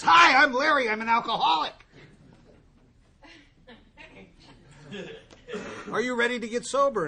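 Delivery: a cheery sponsor booming down the phone line; eager Larry. Retold or imitated. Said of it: "guy calls me back and goes".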